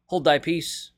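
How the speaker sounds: rebuke. A narrator's reading. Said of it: "Jesus rebuked him".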